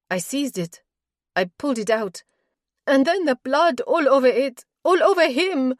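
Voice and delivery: the horror floods back as she speaks; horrified. Acted. Doro telling Hemp about the blood on her dagger, panicked and loud.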